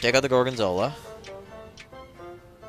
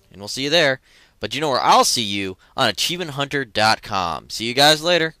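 loud cheerful sign-off; upbeat outro; 4 semitones higher, 7 dB louder than usual. Real, not acted. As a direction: sell the outro.

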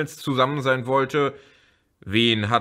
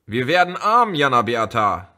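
calling out; 3 semitones higher, 6 dB louder than usual. Acted. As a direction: burst in with the bad news. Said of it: "empfing Elmar sie mit dem Ruf".

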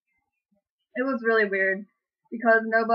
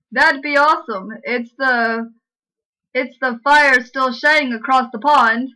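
louder, hammed-up fake British; mock British accent; 4 dB louder than usual. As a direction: overdo the Brit phrasing. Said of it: "How's that British?".

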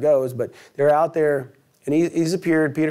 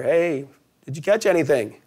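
calling out; 3 semitones higher than usual. Retold or imitated. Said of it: "a voice calls out across the water".

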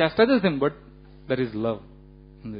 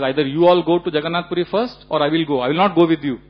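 louder, firm ultimatum; retold anger; 5 dB louder than usual. Lord Chaitanya to Nityananda, louder mock anger. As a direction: lay down the ultimatum, voice raised. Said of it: "So he gets very angry".

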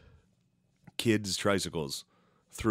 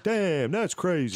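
high, slow amazed drawl; impression of a rapper; 9 semitones higher, slower than usual. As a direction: act stunned, stretched out. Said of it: "the rapper is like".

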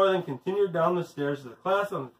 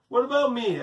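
higher-pitched demand for attention; 6 semitones higher than usual. A narrator's reading. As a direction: insist on being noticed. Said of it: "Allison demanded".

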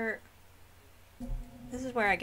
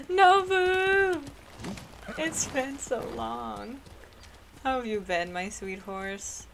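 drawn-out, higher call easing into slow tenderness; affectionate greeting; 4 semitones higher, much slower than usual. Real, not acted. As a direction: greet a long-missed horse. Greeting the horse after long absence.

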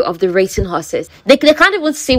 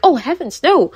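higher, prim and scandalized, oh heavens no; shocked ladylike gasp; 8 semitones higher than usual. Retold or imitated. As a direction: clutch your pearls at Oh, heavens. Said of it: "She's like".

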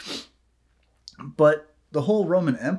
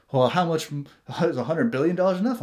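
higher, louder, rushed mock plea; mock Zelensky; 5 semitones higher, 4 dB louder, faster than usual. Mocking Zelensky begging for money, higher and quick. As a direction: fake a greedy leader asking for more, fast. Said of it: "you got Zelensky there like".

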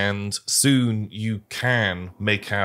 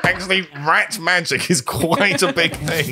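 squeaky rat voice; 5 semitones higher than usual. Acted. GM voices the rats.

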